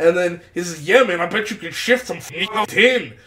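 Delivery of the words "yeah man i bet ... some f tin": put-on aggressive delivery, pitched higher. Retelling a line from a scene, imitating an aggressive delivery. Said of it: "he's saying this in an aggressive way".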